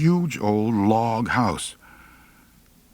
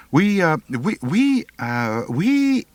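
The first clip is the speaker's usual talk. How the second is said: stammering; 9 semitones higher, slower than usual. Acted. Boy stammers before angry grandpa.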